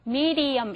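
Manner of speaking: "medium" with the tongue tip lightly tapping the ridge; tapped-d pronunciation. Shown as a demonstration. Teacher showing where the tongue touches, tapped-d pronunciation. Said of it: "혀 끝이 그 부분을 살짝 닿으면서".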